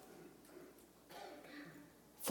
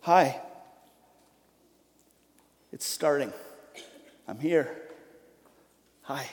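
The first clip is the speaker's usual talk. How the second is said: warm greeting; 3 semitones lower, 6 dB quieter than usual. Shown as a demonstration. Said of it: "with the warmth of friendship".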